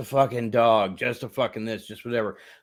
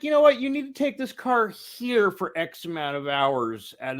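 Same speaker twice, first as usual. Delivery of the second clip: mock scolding; 5 semitones higher than usual. Mock lecture to rich drivers.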